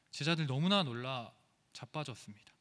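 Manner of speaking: ordinary talk, nothing marked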